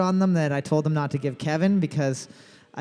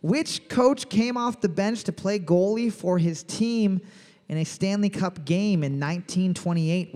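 bright, slow game-show reading of the question; quiz host read. Acted. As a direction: announce it like a pub trivia host. Reads trivia question as host.

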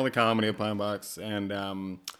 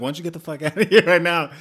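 loud, higher-pitched mock bouncer outburst; retold angry order; 7 semitones higher, 9 dB louder, faster than usual. Bar worker kicking out a podcaster, retold as an angry shout. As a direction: imitate an angry man throwing someone out.

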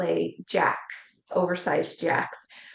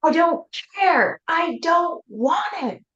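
high, loud snapping yell; angry yell; 10 semitones higher, 5 dB louder, slower than usual. Retold or imitated. Mother turning on her daughter, loud angry yell. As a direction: lash out loud and sharp. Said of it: "and I yell".

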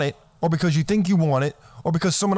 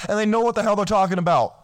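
higher, fast ranting tirade, half-comic; losing my temper; 4 semitones higher than usual. Acted. Guru ranting at complaining men, mock-furious outburst. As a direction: snap at the losers in a hammed-up rage. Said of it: "I'm not gonna apologize for losing my temper".

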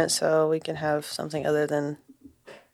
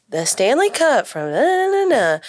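sing-song pitch leaping up high; mock an Amazon haul girl; high-ending mock influencer singsong; 7 semitones higher, 4 dB louder than usual. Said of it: "every sentence ends on a high note".

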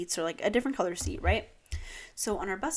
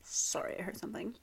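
hushed, distracted whisper; 6 dB quieter than usual. Real, not acted. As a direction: whisper it, listening for a noise. Startled by a noise.

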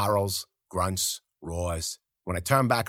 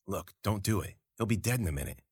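quiet; 6 dB quieter than usual. Acted. Urgent plea hidden in ditch.

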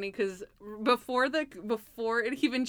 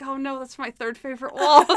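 higher, loud comic alarm; mock dismay; 4 semitones higher, 8 dB louder than usual. Host quotes Monk losing his favorite wall, mock dismay. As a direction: wail it in playful distress.

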